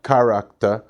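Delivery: "character" said the Jamaican way, open "ka-RAK-ta"; Jamaican pronunciation. Retold or imitated. Reader in class not understood by classmates, Jamaican "character". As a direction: say "character" with open Jamaican vowels, dropping the final r. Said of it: "nobody in the class could understand".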